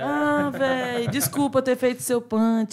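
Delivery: slow, drawn-out playful sorry; mock apology. Guest apologising for taking the punchline, slow mock-sorry drawl. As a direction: drag the apology out, half-joking.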